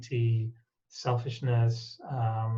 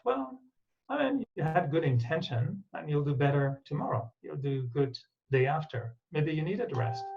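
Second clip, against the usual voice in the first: kind self-talk. Retold or imitated. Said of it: "Can I tell myself".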